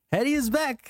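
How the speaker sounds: high, theatrical villain voice. Pretend. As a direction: ham up a cartoon villain. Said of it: "Villain voice".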